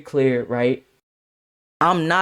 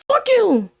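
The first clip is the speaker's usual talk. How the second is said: high falling mimicked jab; mock high voice hurling an insult; imitated insult; 14 semitones higher than usual. Simon cursing as Jay walks out, in mimicked high voice.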